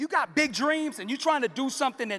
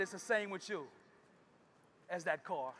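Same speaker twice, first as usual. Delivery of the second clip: softer and low; quiet father; 4 semitones lower, 10 dB quieter than usual. Acted. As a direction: let the lesson land gently.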